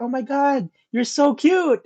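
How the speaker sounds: high-pitched mock girly gush; mock-sweet high squeal of greeting; gushing date. Voicing the date greeting him.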